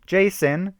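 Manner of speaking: high, loud horrified scream of his name. A narrator's reading. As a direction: scream as he collapses. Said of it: "screamed a girl".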